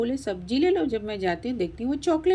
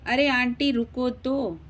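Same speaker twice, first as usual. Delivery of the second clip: slow, drawn-out call to stop; 3 semitones higher, slower than usual. Acted. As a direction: stretch the words to hail a passing seller. Calling a seller to stop. (रुकने के लिए खींचकर पुकारना)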